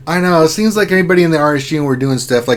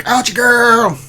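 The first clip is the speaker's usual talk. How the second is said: high, loud, drawn-out call; mock smitten cry, stretched at the end; Urs; 11 semitones higher, 6 dB louder, slower than usual. Host imitating poor Urs calling to co-host, yearning. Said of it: "poor Urs, who's like".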